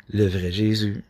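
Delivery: monotone, a bit like a robot; robotic delivery. Real, not acted. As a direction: say it evenly, lightly robotic. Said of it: "je dis ça un peu comme un robot". (un peu comme un robot, monotone)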